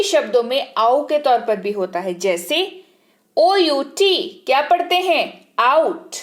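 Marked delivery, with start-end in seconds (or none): 5.6-6.1 आउट with a clear gliding 'ow' vowel; teacher showing the 'ow' sound; au sound demo. Shown as a demonstration. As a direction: glide the vowel in आउट from 'a' to 'u'. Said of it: "सुनाई दिया ओ का उच्चारण आउ के तौर पर?".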